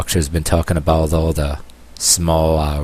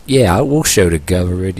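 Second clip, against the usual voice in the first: sarcastic. Acted. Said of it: "Yeah, I'm being sarcastic here".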